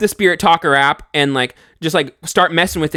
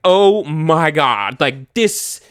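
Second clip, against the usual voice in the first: slow stunned awe; slow, drawn-out awe; awed; much slower than usual. Retold or imitated. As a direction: drag out stunned disbelief. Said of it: "And I'm just like".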